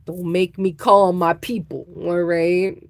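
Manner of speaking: lightly voiced mafia boss; a hint of the Godfather threatening; playful mock mob threat; mock Godfather mobster. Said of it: "The Godfather".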